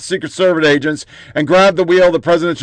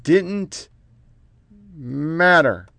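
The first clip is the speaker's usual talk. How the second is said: "Didn't matter" said much softer, drawn apart; quiet scorn; 6 dB quieter, much slower than usual. Real, not acted. Host repeating the claim to himself, hushed and dry. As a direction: let it hang, dry and hushed.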